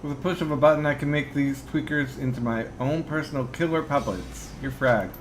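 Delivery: calm, digitized robotic voice; bitcrushed. Acted. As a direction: speak calmly through a bitcrusher. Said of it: "speaks with a heavily digitized voice".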